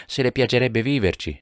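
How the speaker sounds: pressing on. A narrator's reading. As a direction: push on to make your meaning clear. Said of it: "incalzò Jonas".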